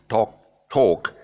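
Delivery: "talk" as "tawk", rounded and without L; British talk. Shown as a demonstration. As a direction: push the tongue down for British "talk". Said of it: "British pronunciation".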